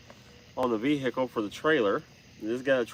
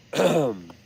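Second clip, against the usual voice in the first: throat clearing; 3 semitones higher than usual. Real, not acted. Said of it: "I just swallowed a bug".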